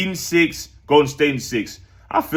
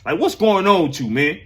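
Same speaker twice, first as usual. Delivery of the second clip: mock interviewer; 7 semitones higher than usual. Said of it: "get him on the interview".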